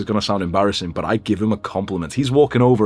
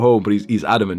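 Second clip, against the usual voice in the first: ordinary talk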